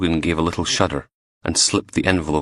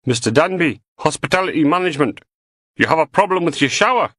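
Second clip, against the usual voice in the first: much higher, fast polite caller; hotel staff voice; 11 semitones higher, 3 dB louder than usual. A narrator's reading. A fake hotel worker calling through the door, prim and high.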